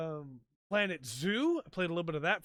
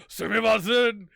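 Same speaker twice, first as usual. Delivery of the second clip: guys' apology; 3 semitones higher, 10 dB louder, slower than usual. Retold or imitated. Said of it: "they go".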